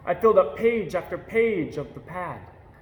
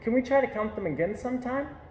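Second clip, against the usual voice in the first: put-on eager child asking; 8 semitones higher, faster than usual. A narrator's reading. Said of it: "I asked".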